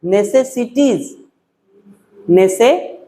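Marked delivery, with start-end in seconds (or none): 0.0-1.2 नेसेसिटीज said slowly, each syllable drawn out; slow spelling-out pronunciation. Shown as a demonstration. Teacher dictating a word to students, slow and clear. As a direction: sound out नेसेसिटीज for the class, slowly. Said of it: "नेसेसिटी मतलब आवश्यकता या जरूरत".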